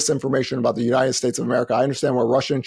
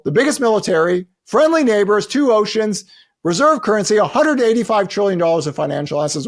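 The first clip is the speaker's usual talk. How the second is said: sarcastic lecture; 5 semitones higher than usual. Retold or imitated. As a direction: lay it on thick with irony. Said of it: "I was like".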